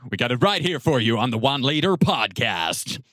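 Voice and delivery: punchy American announcer; loud American accent, podcast host hype. Pretend. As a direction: belt it out like an American promo. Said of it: "we can't do American accents".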